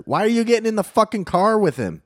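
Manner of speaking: high, incredulous challenge; retold angry confrontation. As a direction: act out challenging her in disbelief. Retells confronting woman getting in car.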